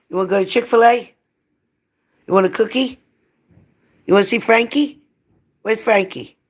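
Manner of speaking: very high, bright sing-song pet voice. Real, not acted. Owner tempts her dog with food and walks, high sing-song baby talk.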